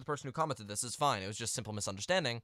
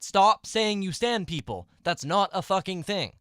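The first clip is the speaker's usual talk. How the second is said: raised, emphatic exasperation; exasperated; 5 semitones higher, 5 dB louder than usual. Real, not acted. Vlogger telling fans to stop misusing stan, exasperated. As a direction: hammer it out, fed up. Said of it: "it just, it drives me insane".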